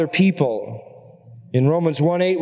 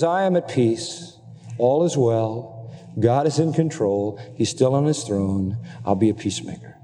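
calm inner peace; 3 semitones lower than usual. Acted. Quoting a peaceful heart's commitment.

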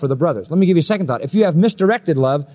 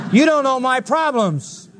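mock grumbling reply; 8 semitones higher than usual. Believer brushing off the cheerful rejoice, mock put-upon whine. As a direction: play the sulking believer. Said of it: "You go".

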